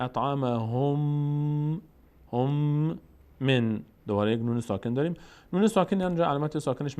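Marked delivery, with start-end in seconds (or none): 0.0-3.0 slow اطعمهم with "hum" held on the m; drawn-out recited اطعمهم, long final m; joined ha and mim. Shown as a demonstration. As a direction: join ه to م and hum through the end of اطعمهم. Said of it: "این ه میچسبه به میم".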